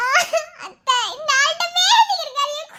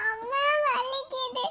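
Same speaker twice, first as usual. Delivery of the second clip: much softer, drained, slow plea; weak moan of pain; 2 semitones lower, 8 dB quieter, slower than usual. Acted. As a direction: barely push the words out, exhausted. Mother in pain, second plea.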